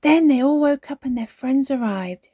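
put-on high, loud child's outburst; excited cry. A narrator's reading. Peppa not wanting the story to end, crying out. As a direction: burst in to keep the story going. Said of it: "she cried".

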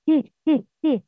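ت released with a puff of air; breathy ت bursts. Shown as a demonstration. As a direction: let the breath escape on ت. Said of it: "The quality of hums".

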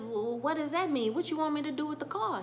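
can't believe he's leaving the car; lightly voiced disbelief; mock confusion. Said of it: "And Shy says".

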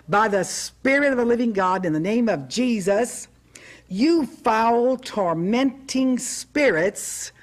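fervent command to the devil, mildly performed; enthusiastic command. Retold or imitated. Preacher retelling her command to the devil, enthusiastic. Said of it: "I said very enthusiastically".

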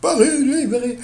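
mock triumphant general; de Gaulle voice. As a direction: shout «Paris libéré» like a wartime general. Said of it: "Il l'avait dit quand même avec cette voix".

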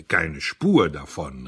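slow, loud, pronouncing verdict; a judge handing down a death sentence; emphatic cry. Acted. Audley slowly and loudly rejecting the Café Anglais. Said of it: "rief er".

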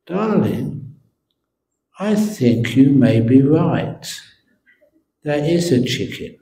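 soft, tender concession; gentle giving in. Acted. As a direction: give in lovingly, softly. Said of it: "held her hand gently".

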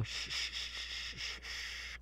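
soft unvoiced shushing that fades away; hushing whisper. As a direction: shush the captive to silence. Hushing the captive victim.

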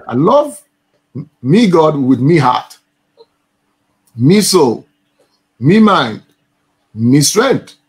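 Liverpool Scouse lilt with "me" for my; a Scouser's "I love me God with me heart"; Scouse accent. Shown as a demonstration. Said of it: "the Scouse accent".

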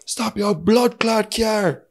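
slow, high barked order from a cop; mock police command; imitating the officer. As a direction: play the cop stopping the car, slowly.

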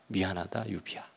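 low, soft, fading voice of God; a tender apology trailing away; God's voice. Retold or imitated. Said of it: "주님의 음성을 들은 거죠".

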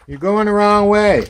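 high, loud, held-out call; calling after a puppy. Real, not acted. Owner calling to a straying puppy, high loud holler.

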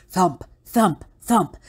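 punchy storybook footstep words; spoken stomping sound effect; heavy thumps. A narrator's reading. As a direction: land each thump like a footfall. Voicing the monster's heavy footsteps.

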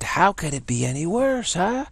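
exasperated guy. Retold or imitated. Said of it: "He said".

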